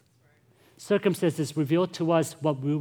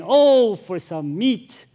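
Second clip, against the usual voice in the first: high, loud, drawn-out Oh, then slow for some meat; mock whining crowd; 6 semitones higher, 9 dB louder, much slower than usual. Israelites longing for Egypt's food, whining high and slow. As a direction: moan it like craving Israelites. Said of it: "they proclaimed, exclaimed".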